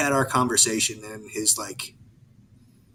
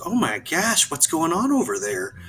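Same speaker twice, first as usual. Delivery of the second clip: higher Southern grandma exclaiming; Southern grandma accent; 6 semitones higher than usual. Retold or imitated. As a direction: fluster like a Southern granny. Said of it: "Southern grandma accent".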